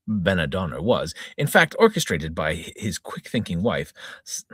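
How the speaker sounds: brisk reporter reading the spoof story; mock news read. Reader presenting a spoof story, mock news anchor. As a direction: deliver it like an earnest news anchor.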